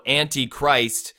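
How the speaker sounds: "Antichrist" drawn out slowly, stressing An and Christ; stressed syllables shown. Shown as a demonstration. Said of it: "there's a stress on the an".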